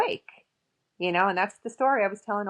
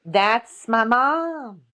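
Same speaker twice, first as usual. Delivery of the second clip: slow, louder awed statement; stunned reveal; 4 semitones higher, 6 dB louder, much slower than usual. Real, not acted. Daughter realizing psychic named her mother, awed. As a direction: let it land slowly, amazed.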